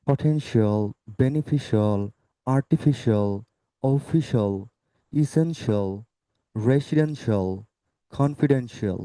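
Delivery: each word from পটেনশিয়াল to কনফিডেন্সিয়াল ending in "shol"; model pronunciation. Shown as a demonstration. Teacher running through rule examples, "shol" endings. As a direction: list পটেনশিয়াল and the rest with one-syllable "shol" endings. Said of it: "আমরা সেটা উচ্চারণ করব শলের মতো".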